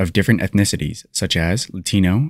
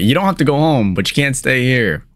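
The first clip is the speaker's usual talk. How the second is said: higher, faster corrected catchphrase; corrected quote; 5 semitones higher, faster than usual. Shown as a demonstration. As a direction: blurt the right version quickly. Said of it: "Oh, wait".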